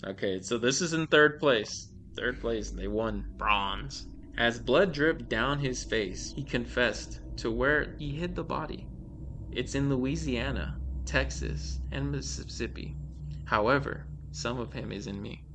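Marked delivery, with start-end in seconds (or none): 4.4-15.4 measured read-aloud of a creepy tale; storyteller's deliberate delivery; scary story narration. A narrator's reading. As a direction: read it out like a short horror story. Reads scary stories aloud.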